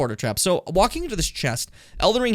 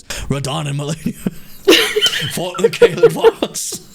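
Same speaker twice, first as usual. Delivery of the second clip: Gideon impression; 7 dB louder than usual. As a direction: squeak it through laughter. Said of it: "he sounds more like this".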